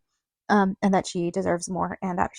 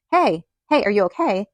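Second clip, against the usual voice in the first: imitated calling out; 2 semitones higher, 7 dB louder than usual. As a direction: call across the street, checking on someone. Calling out to girl in street.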